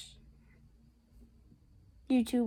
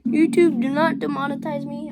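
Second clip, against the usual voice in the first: calling out; 3 semitones higher, 11 dB louder than usual. Real, not acted. Calls out to YouTube.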